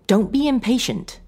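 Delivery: lightly scolding wife. A narrator's reading. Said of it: "she scolded lightly".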